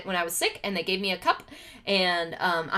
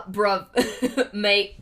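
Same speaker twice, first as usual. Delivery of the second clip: London accent; 3 dB louder than usual. Shown as a demonstration. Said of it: "this is London".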